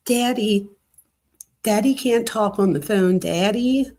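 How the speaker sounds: a hint of the mom, lifting "Daddy"; imitating mom's "daddy". Host mimicking how the mom talks about dad, light mockery. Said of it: "She'll be like".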